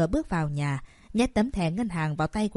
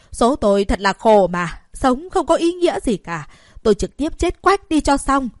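loud, higher mock wailing; wailing lament; 3 semitones higher, 5 dB louder than usual. Mother sitting on the floor wailing to guilt her daughter, loud. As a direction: wail theatrically about her bitter fate. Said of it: "bắt đầu gào khóc".

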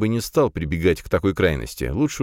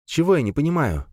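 bitter smirk; 10 semitones higher than usual. A narrator's reading. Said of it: "горько усмехнулась Алиса".

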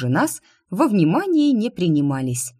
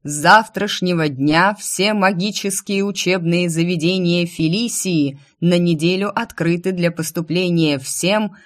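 town crier. Acted. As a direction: read the royal decree aloud. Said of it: "Громкий голос глашатая перекрывал".

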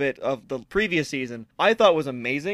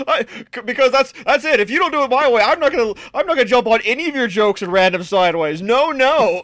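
mock indignant; 6 semitones higher, 5 dB louder than usual. Mock huffy refusal.

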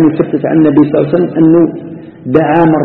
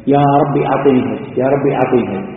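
humble plea to God; 3 semitones lower, 5 dB quieter than usual. Shown as a demonstration. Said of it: "يرفعها إلى ربه". (دعاء خاشع بطيء وبصوت خافت)

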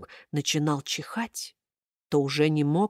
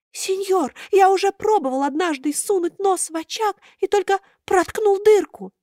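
high thin puppet voice; 13 semitones higher than usual. A narrator's reading. Buratino explains to Karabas, high thin voice.

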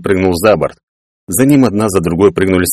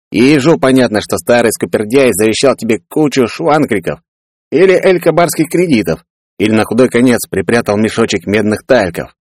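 scornful retort; 4 semitones higher than usual. Acted. Peller sneers about father's legacy.

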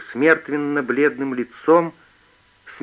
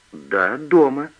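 a touch of boldness, louder; bold; 5 dB louder, slower than usual. A narrator's reading. Girl lying boldly to the thief, lightly defiant. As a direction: answer firmly, hiding her fear. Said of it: "говорит она смело".

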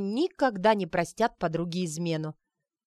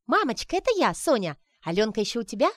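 excited phone call; 4 semitones higher, 4 dB louder, faster than usual. Acted. Соня кричит маме в телефон.

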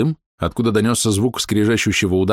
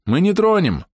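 shouting; 10 semitones higher than usual. A narrator's reading. Calling out to the elf.

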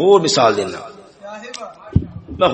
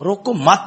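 "روکو مت" as one unit, then stop; روکو مت closed off before the next words; breath pause after مت; 3 semitones higher than usual. Shown as a demonstration. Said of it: "اگر اتھے سا کڈو".

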